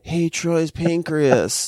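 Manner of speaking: playful sing-out to an organ; mock calling out. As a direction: stretch it out like hailing someone. Imagined voice calling to pancreas.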